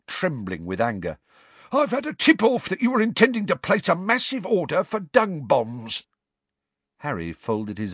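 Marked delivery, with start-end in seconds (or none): 1.7-6.1 high, strained, menacing caretaker; grumpy old caretaker. A narrator's reading. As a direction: accuse him like a spiteful old man. Filch's voice in narration.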